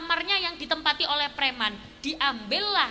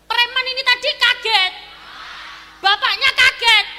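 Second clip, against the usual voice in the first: higher and louder, swelling to a shout; building excitement; 8 semitones higher, 10 dB louder than usual. Acted. The preacher tells the congregation everyone was shocked, rising to a shout. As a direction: pile on the shock, louder each time.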